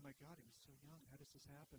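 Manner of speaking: soft, stunned murmur of grief; hushed disbelief. Retold or imitated. Coworkers in the kitchen mourning, hushed and stunned.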